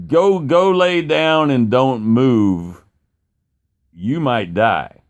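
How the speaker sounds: slow, deliberate imitated order; grave warning. Dad sending his stung son to lie down, gravely. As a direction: spell out the danger slowly.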